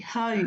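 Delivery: Jai with a j-like rough breathing at the start; a teacher echoing the correct Jai; modelled answer. Shown as a demonstration. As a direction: repeat Jai clearly for the class.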